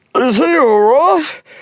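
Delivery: very high, drawn-out words through a yawn. A man shuffles in and asks about the injured boy, yawning. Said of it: "yawned Mr. Magee".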